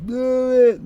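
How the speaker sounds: high, loud screeching dare; shrieked dare. Retold or imitated. Roommate daring him to call the cops, high loud screech. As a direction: fling it back at him, shrill with rage.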